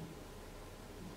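slow breathy whisper of wonder. Real, not acted. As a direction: let it out on a slow breath, almost voiceless. Moved speaker, breath-only aside.

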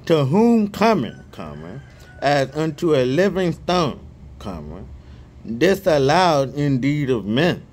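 scripture reading. Real, not acted. Reading First Peter aloud to his viewers, measured scripture reading.

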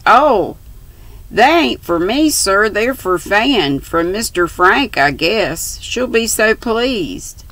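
put-on bright, eager young girl voice; straightforward young girl. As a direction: answer simply and openly, like a young girl. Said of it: "answered in her straightforward way".

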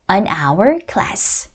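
"on our class" slow, "our" opening on a vowel; "our" said as "ah-wer" straight after "on"; silent-H linking. Shown as a demonstration. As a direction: model "on our class" slowly with no H. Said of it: "H가 소리가 안 나요".

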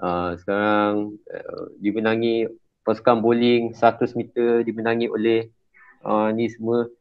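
flat, unenthusiastic prize announcement; hesitant, monotone award announcement demo; unappreciative. Shown as a demonstration. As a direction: read out the winners with no sense of honour. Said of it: "janganlah murah sangat".

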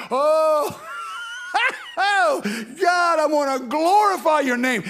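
high, loud ecstatic praise with laughter; preacher getting happy before God; happy rejoicing shout. Shown as a demonstration. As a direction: shout your praise like you're overjoyed. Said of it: "And you get happy like that".

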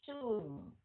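"Soon" with a long oo, falling into N; drawn-out vowel. Shown as a demonstration. Teacher modelling double vowels, long falling "Soon". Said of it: "hai cái nguyên âm thì mình kéo dài".

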